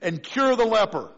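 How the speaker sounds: a touch of loud indignation; indignant Naaman. Acted. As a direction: Naaman huffing at the insult. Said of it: "He said".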